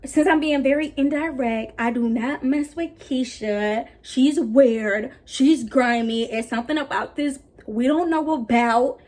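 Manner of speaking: slow, declarative call-out for the camera; re-enacted Snapchat rant. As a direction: replay your pointed post, stretching each statement. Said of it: "this is me on Snapchat".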